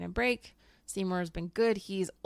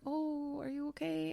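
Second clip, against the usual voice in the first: imitating students; 8 semitones higher, 7 dB quieter than usual. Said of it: "my students are usually like".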